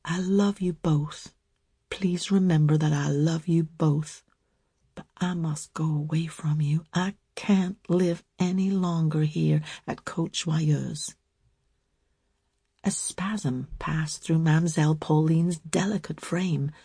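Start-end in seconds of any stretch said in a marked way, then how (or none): 0.0-11.1 lightly voiced, steady and firm girl; low, clear and firm. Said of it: "She spoke low but clearly and firmly".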